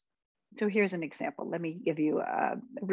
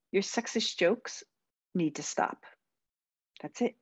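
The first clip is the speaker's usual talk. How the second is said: powerful, firm. Shown as a demonstration. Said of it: "here's a more powerful way".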